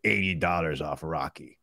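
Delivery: griping star impression; Sylvester Stallone. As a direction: play an aggrieved action star.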